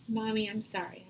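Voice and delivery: put-on whispered child apology; child's whisper. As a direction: softly voice a sorry child. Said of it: "They'll say".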